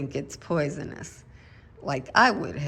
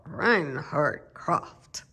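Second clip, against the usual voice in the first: slow, deliberate attempt at a German accent; lightly put-on German accent; best German accent; much slower than usual. Shown as a demonstration. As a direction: give the name your best German accent. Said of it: "my best German accent".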